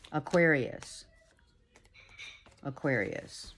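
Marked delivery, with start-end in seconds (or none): 2.6-3.5 much softer, hushed repeat; soft echo. Shown as a demonstration. Reader echoes the sign name, softly hushed. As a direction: let it fade like a distant echo. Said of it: "sign name repeated, echoed".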